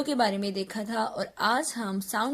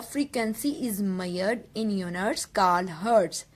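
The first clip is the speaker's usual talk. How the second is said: slow, word-by-word definition read; slow dictation; 2 semitones lower, much slower than usual. Acted. Teacher dictating a definition to students, very slowly. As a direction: spell it out slowly for their notebooks.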